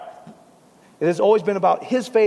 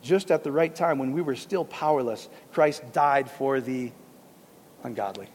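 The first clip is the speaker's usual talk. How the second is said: true reading; 3 semitones lower than usual. Shown as a demonstration. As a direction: read the real verse gently. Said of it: "You see".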